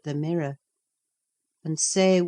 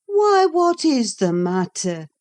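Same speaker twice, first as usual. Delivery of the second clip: cried out; 7 semitones higher, 7 dB louder than usual. A narrator's reading. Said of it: "cried I".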